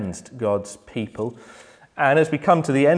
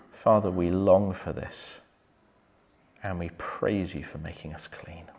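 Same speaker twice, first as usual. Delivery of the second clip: closing prayer; 2 semitones lower than usual. Acted.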